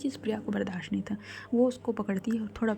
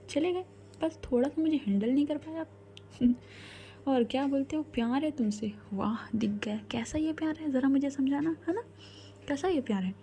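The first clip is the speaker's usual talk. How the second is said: higher-pitched, mock-questioning reproach; hurt reproach; 5 semitones higher than usual. Priya reproaches Naina for leaving, hurt and sarcastic. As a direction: challenge their claim of love in a raised pitch.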